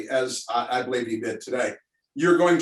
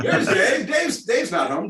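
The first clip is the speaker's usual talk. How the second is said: higher, slow, drawn-out "Dave's not home"; mock stoner voice; 7 semitones higher, 4 dB louder, slower than usual. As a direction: quote the old stoner skit. Jokey stoner-skit quote.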